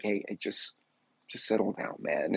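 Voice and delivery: low, soft settle-down; half-voiced, unbothered officer; mock low-key cop. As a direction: imitate a cop quietly calming someone. Cops acted as uninterested.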